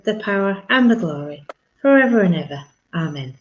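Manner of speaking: steady, reverent recited prayer. Acted. Leading the online congregation in the Lord's Prayer, reverent recitation.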